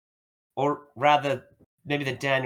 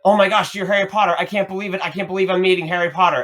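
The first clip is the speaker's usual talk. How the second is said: high, excited gushing; mock starstruck fan; 5 semitones higher, 4 dB louder, faster than usual. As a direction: gush like a starstruck stranger. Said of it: "would just be like".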